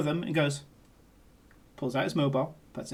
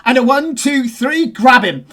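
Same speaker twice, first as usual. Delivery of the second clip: rhythmic count building louder and higher; dancer's count-in; 5 semitones higher, 6 dB louder than usual. Acted. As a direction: count the beat, then burst on the last words. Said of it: "And he goes".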